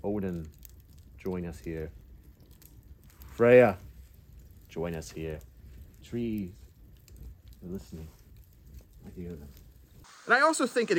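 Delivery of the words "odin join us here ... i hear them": slow, soft, dry voice of the risen dead; weak hoarse dead voice. Shown as a demonstration. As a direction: speak like a corpse just woken, barely audible. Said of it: "It's going to be weak because you haven't spoken in so long".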